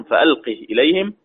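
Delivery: فألقه with a short i on the final ha; short vowel reading. Shown as a demonstration. Teacher showing students the qasr of فألقه, short i on the ha. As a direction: say فألقه with a quick short i after the ha, not stretched. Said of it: "القصر".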